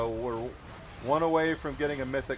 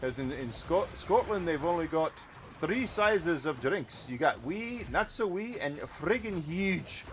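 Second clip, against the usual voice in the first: put-on a light Scottish accent, higher and slowed on the sizes; hamming up a Scottish pub joke; 3 semitones higher than usual. Joking to chat about Scottish drink sizes in a Scottish accent. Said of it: "My Scottish isn't as good as Mike Myers".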